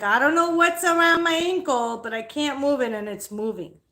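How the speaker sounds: mock panicked outburst, high and loud at first; retold panic. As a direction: panicky retelling that jumps up, then settles. Retelling her panic to relatives.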